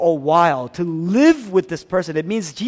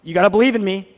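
demanding Jesus; 3 semitones higher, 5 dB louder than usual. Retold or imitated. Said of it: "he doesn't say".

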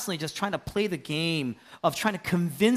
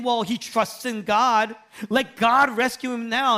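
mocking crowd; 4 semitones higher, 4 dB louder than usual. Preacher voicing the crowd jeering at Jesus, loud taunt. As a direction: sneer it like a mocking bystander.

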